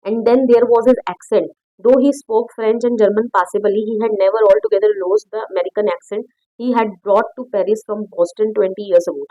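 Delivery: reads the English line slowly and carefully; slow story reading. Acted. Teacher reading the story text aloud to students, slow and careful. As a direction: spell out the text slowly for the class.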